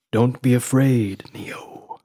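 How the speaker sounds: slow, fading into a whisper; hushed reassurance. Acted. Smith tells fallen Neo not to fear, hushed. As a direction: ease down to a breath on the name.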